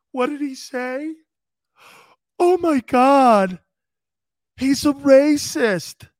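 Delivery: hammed-up shocked snowflake, drawn out slow; a touch of mocking outrage; mock outraged caller. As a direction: overplay the offended listener. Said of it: "I'm acting like that".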